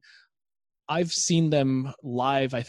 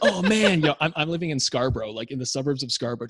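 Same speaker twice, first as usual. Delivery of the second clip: put-on laughing teen thoughts; faster than usual. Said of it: "I remember just thinking".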